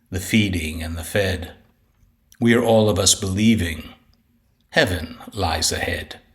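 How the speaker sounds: measured, solemn reading of a bleak sonnet; formal, ominous verse delivery; poetry recitation. Acted. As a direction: recite it deliberately, pausing between lines and sinking at the close. Recites own poem aloud.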